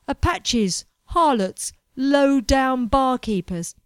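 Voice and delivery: loud, slow scornful list; a touch of sneering contempt; contemptuous list. Acted. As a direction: spit out each word with disdain. Edward listing with contempt.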